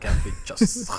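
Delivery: Jasikevičius squeaked out very high; high squeaky repeat. Real, not acted. Mocking repeat of name.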